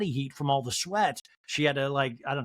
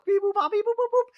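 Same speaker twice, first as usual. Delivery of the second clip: very high, louder mocking voice; high catty mockery; Dorit impression; 4 dB louder than usual. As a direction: sneer at the outfit in falsetto. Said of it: "Dorit sees Sutton and goes".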